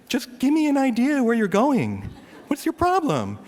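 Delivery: high, loud mock road rage; ticked-off driver. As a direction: complain at the driver ahead, pitch way up. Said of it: "that's one of the things that ticks me off".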